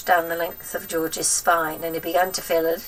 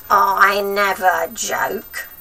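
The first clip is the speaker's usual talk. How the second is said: stern denial; 7 dB louder, much slower than usual. A narrator's reading. Grandma dead serious.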